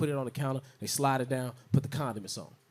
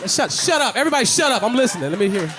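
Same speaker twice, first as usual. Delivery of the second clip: mock shushing; 6 semitones higher, 6 dB louder than usual. Hushing the crowd.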